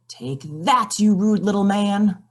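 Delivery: a touch of a cross witch; witch casting spell. Acted. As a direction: hit him with the spell.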